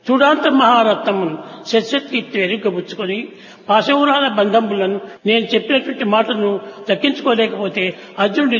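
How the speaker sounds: sermon verse chanting; verse recital. Acted. Chants Telugu verse poem.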